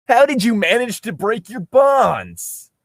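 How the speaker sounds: high, slow astonished question; shocked question. Acted. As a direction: gasp it out in disbelief. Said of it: "Link asked in shock".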